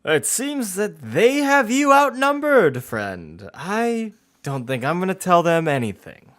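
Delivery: high, slow put-on villain voice; cult leader. Game master answers as cult leader, high slow taunt. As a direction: draw it out high, refusing the threat.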